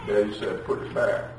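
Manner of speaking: soft, small answer; meek child reply. Acted. Child repeating Daddy's order to the parent, meek child reply. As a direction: play a sheepish child owning up.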